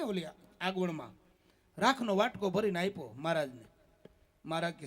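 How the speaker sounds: ordinary talk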